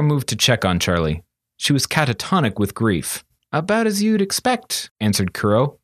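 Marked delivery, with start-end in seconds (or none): 3.5-4.9 put-on higher, subdued boy's reply; muted apprentice. A narrator's reading. Apprentice answering his master, subdued and higher. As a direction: answer flatly to hide grief.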